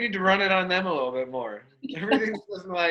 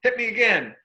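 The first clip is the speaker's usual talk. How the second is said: excited whoop; 9 semitones higher, 9 dB louder than usual. Retold or imitated. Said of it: "I'm like".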